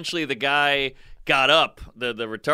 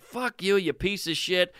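angry; 4 semitones higher than usual. Retold or imitated. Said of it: "I just lost it on this guy".

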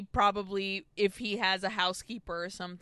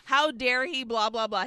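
mock angry rant; 4 semitones higher, faster than usual. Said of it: "Gaston is pissed".

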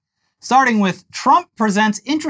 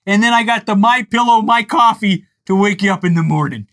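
lightly voiced pillow salesman, a bit louder; mock Mike Lindell pitch; 3 semitones higher, 3 dB louder than usual. Podcast host parodies the pillow CEO's sales pitch, lightly voiced. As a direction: hype the products like a pushy pitchman. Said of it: "I'm with Comrade Mike on this".

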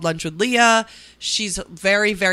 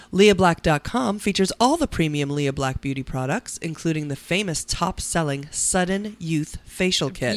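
ad read. Acted. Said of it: "your voice sounds beautiful".

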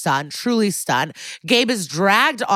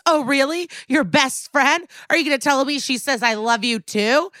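hammed-up retold yelling at the witness; mock scream; 6 semitones higher than usual.

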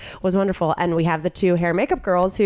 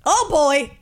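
mock receptionist sigh; 5 semitones higher than usual. Receptionist returns.

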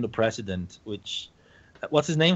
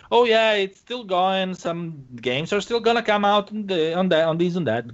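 mock corporate spokesman; 5 semitones higher than usual. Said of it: "they're probably gonna say".

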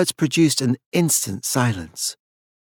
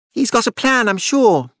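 ragged and unsteady; 11 semitones higher than usual. A narrator's reading. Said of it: "His voice was ragged and unsteady".

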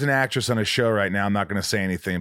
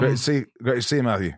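Cockney. Shown as a demonstration. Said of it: "Let me hear a little Cockney".

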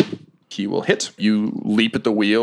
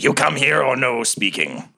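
higher, put-on monster voice; voice in the head; 4 semitones higher than usual. Monster refusing the dinghy parley, in creature voice. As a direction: lay down terms as a scornful creature. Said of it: "sort of cackling in your head".

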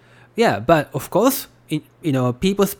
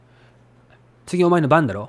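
standard Tokyo Japanese, ending on "だろ"; Tokyo dialect. Shown as a demonstration. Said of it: "That's Tokyo dialect".

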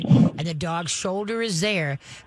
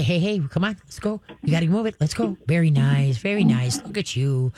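calm steady voice. Shown as a demonstration. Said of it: "you gotta be very calm and say".

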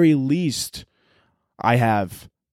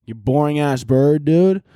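slow, higher exasperated mock yell; annoyed yell; 3 semitones higher, much slower than usual. Owner in bed telling the boring bird off, mock yell. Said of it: "It's like".

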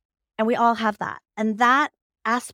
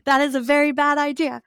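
scolding inner voice; 6 semitones higher, 5 dB louder than usual. Retold or imitated. A mind scolding her for trusting her gut, loud and stern. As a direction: lay down the law like a strict inner critic. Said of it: "my mental intelligence is saying".

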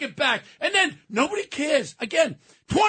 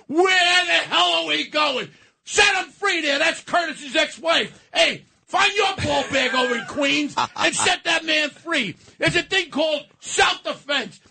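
raised, indignant outcry; angry rant; 2 semitones higher than usual. Real, not acted. Radio host ranting at the governor, angry. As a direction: let the outrage boil over.

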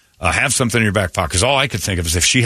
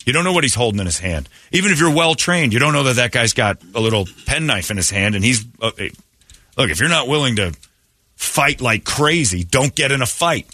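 higher, urgent pleading at the screen; urgent warning; 6 semitones higher than usual. Retold or imitated. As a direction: warn him off, pitched up and insistent. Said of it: "I'm like".

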